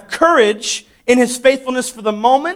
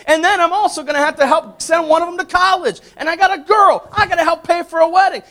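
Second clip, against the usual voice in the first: worried parent; 6 semitones higher than usual. Retold or imitated.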